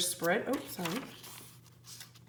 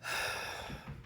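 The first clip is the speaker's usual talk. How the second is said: deep breath; 11 dB quieter than usual. Acted. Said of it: "Jack took a deep breath".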